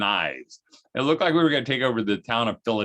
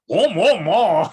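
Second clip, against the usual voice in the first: much higher, louder gleeful whoa; motorcycle whoa; 9 semitones higher, 9 dB louder, slower than usual. Retold or imitated. Amish boy riding off on his tricycle, loud gleeful whoa. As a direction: imitate a toddler revving off on a trike. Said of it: "making motorcycle sounds".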